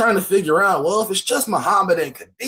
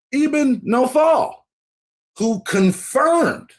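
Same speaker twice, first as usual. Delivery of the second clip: slow careful reading; 6 semitones higher, much slower than usual. Shown as a demonstration. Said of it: "careful rereading".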